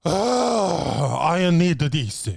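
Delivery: hammed-up flustered hostess; pitiful waitress voice; mock whimper. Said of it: "she's like".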